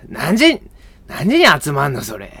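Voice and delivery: mock blunt Osaka questioning; rough Osaka dialect. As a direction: play a foul-mouthed Osaka speaker. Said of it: "口悪い大阪弁みたいな".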